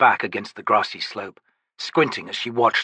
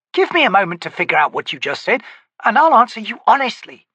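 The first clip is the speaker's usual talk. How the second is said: dry corporal; 11 semitones higher, 5 dB louder than usual. Acted. Pika retorts.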